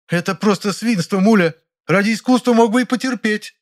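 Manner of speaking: very high, reproachful theatrical outburst; exclaiming Ranevskaya. A narrator's reading. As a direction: scold him for art's sake. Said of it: "воскликнула она". (высокий укоризненный возглас Раневской)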